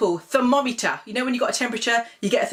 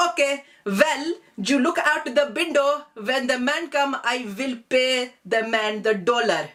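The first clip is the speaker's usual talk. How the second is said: put-on auntie's Desi accent; 3 semitones higher, slower than usual. Auntie telling niece to watch for delivery man, Desi accent. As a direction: sound like an auntie sorting dinner. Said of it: "she says".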